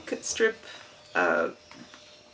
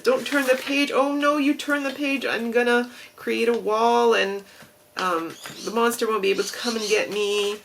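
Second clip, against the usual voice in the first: higher, louder frantic Muppet plea; Grover pleading; 4 semitones higher, 3 dB louder than usual. Retold or imitated. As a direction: beg the reader not to turn the page. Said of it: "You know, Grover style".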